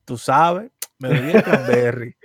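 slow, deliberate mock reveal; drawn-out punchline delivery; dramatic confession. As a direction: imitate a friend pausing before confessing. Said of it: "hizo la pausa y dijo".

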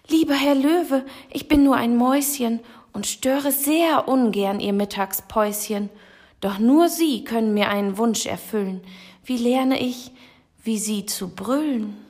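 high, polite little mouse voice; timid little mouse. Acted. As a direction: plead sweetly as a tiny mouse. Kleine Maus bittet den Löwen. (hohe, höfliche Mäuschenstimme)

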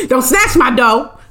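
lightly voiced scolding mother; a touch of mock maternal irritation; mad mother. Mother scolding a child with attitude, mock mad. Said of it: "when your mother used to get mad".

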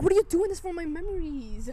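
high, loud mock outrage; hammed-up high-pitched complaint; retold protest. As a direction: act out an indignant wail from a story. Acted protest in retold shell story.

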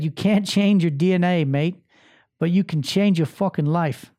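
light, butchered Australian accent imitating a client; botched Australian accent. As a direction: attempt an English accent, land on Australian. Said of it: "That was actually an Australian accent".

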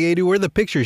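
a hint of an impatient sister; mimicking his sister. Sister on video call demanding photos, lightly mimicked. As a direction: ask like a sister waiting on news. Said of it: "she's like".

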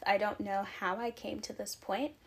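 catching breath while talking. Real, not acted. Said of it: "I'm genuinely out of breath".

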